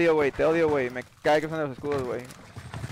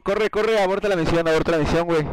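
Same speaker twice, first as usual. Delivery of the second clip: loud, urgent shouting to flee; panicked yell; 5 dB louder than usual. Real, not acted. Caught in the match, yelling at himself to flee in panic. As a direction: yell at yourself to run and abort.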